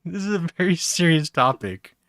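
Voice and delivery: high, loud helium filter; chipmunk voice. Real, not acted. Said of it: "started becoming a chipmunk voice".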